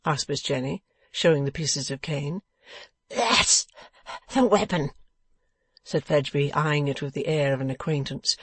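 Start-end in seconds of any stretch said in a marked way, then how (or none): 3.1-4.9 tag. A narrator's reading. Beaten man identifies the cane.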